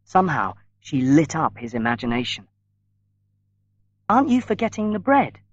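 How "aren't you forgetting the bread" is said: a quick, higher-pitched startled question; sudden reminder. A narrator's reading. Miriam reminding Paul of the bread, suddenly raised. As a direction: Miriam suddenly remembers, a touch alarmed. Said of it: "Miriam said suddenly".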